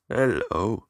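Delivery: imitating a strange backwards voice; a hint of speech played backwards. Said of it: "like, backwards voice".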